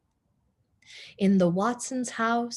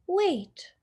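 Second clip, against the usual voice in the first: sudden call; 10 semitones higher than usual. A narrator's reading. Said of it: "said Missus Watson".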